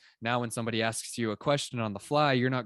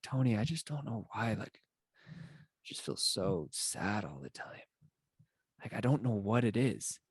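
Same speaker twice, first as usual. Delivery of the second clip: depressed, like Eeyore; 4 dB quieter than usual. Acted. Depressed person confiding in a motivational coach, gloomy. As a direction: act out a downcast Eeyore type. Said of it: "talk like this every day".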